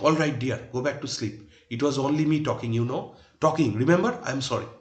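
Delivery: loud, sarcastic shout at the wife; mock shouting. Jimmy shouting sarcastically at his wife, loud. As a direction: bellow it back with mock apology. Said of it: "Jimmy shouting".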